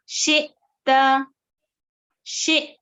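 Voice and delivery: फ़तू very slow, with a small stop before तू; tiny jolt in the middle of फ़तू; slight catch on hamza. Shown as a demonstration. Teacher shows students the stop at hamza sakina. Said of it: "कैसे रुक रही हूं मैं".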